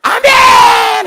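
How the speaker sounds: long, drawn-out shouted amen; congregation amen. Retold or imitated. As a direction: roar a slow, stretched amen like a whole crowd. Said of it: "하면 막".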